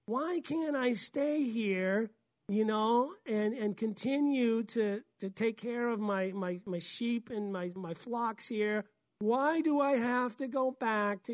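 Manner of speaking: slow, pleading whine; whiny voice. Retold or imitated. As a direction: whine like a reluctant shepherd. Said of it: "I can hear his whiny voice".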